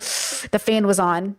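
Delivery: low, drawn-out annoyed answer. Acted. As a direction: grumble it slowly, irritated but not angry. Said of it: "why are you so annoyed".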